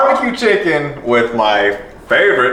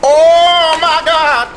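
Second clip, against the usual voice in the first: high, slow, drawn-out gasp of delight; stunned by how good it tastes; amazed; 11 semitones higher, much slower than usual. Real, not acted. First taste of the sauce.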